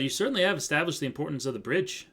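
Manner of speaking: put-on wandering Canadian accent, near Australian; attempted Canadian accent. Judge addressing the court in wobbly Canadian accent. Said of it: "Now he sounds Australian".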